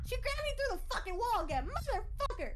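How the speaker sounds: put-on high cutesy baby voice. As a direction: whine it like a little kid. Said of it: "I'm doing my baby voice".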